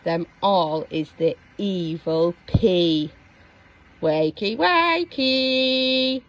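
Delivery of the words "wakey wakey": villain calling. Acted. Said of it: "he called".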